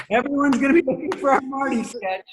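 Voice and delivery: high, put-on mimicked voice; Lauren. Boss answering a hopeless pitch, high mimicked voice. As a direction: lift the voice high for a mocking deadpan verdict. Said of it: "And then Lauren goes".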